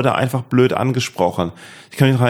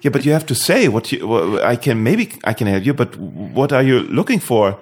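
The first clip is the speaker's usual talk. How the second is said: imitating patient English passer-by. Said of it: "Und die Person hat gesagt".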